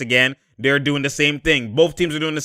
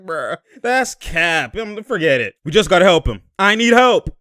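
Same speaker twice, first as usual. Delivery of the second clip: voicing a player; 3 semitones higher, 3 dB louder than usual. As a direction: play the complaining player. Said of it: "He's like".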